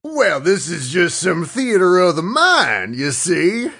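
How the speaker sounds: rally the posse like a cowboy. Acted. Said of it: "do it in a cowboy voice".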